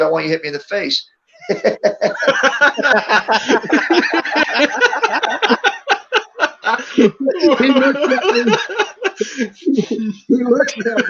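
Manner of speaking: fast, breaking into a laugh; chuckling while asking to be hit; laughing request. Retold or imitated. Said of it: "because I'm laughing".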